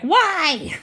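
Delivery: high, laughing cry of why; half-laughing mock despair at her own hormones; exasperated why. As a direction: throw up your hands and laugh it out. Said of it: "and I'm like".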